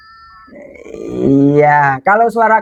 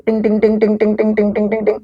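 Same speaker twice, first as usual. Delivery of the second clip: thinking chime sound; 4 semitones higher than usual. Acted. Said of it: "Uwais Al-Qarni berpikir".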